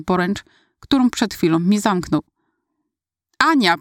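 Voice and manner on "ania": a high, alarmed cry of her name; frightened cry. Acted. Brother seeing sister fall, frightened cry. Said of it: "przeraził się jeszcze mocniej".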